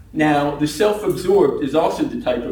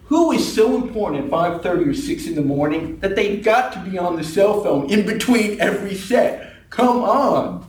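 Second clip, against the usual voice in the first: incredulous rant rising higher toward the end; comic indignant outburst; exasperated; 4 semitones higher than usual. Acted. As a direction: build to a high, fed-up protest. Exasperated rant at phone users.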